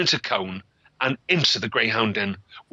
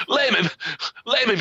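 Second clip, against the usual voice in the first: high shrill cry, much higher; scream; 9 semitones higher than usual. Acted. Girl ordering the dog to attack, high screamed cry. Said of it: "she screamed".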